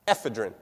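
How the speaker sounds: "Ephedrine" with the beat on the F syllable, EF-uh-drin; stress on E-F. Shown as a demonstration. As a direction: lean on the F in "Ephedrine". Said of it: "They put it on F".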